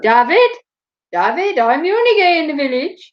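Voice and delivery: Daffyd's indignant catchphrase; Daffyd impression. Answering the Little Britain question, mild Daffyd voice. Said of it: "is that our Brit-, little Brit?".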